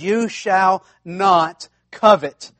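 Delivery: slow, weighty, each word set down; a solemn, emphatic command. Shown as a demonstration. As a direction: lay down the law slowly. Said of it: "it is an emphatic command".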